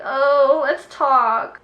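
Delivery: sing-song parody of a needy ex; mock ex voice. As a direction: imitate the ex begging to talk. Mocking ex's expected call.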